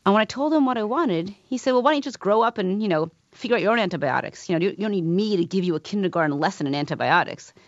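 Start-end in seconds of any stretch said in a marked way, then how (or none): 1.7-7.5 harsh. Retold or imitated. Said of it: "he could be very harsh".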